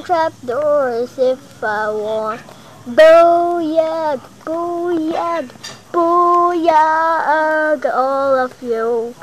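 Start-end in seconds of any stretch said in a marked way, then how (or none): 2.9-7.8 cheering. Real, not acted. Triumphant chant while gaming.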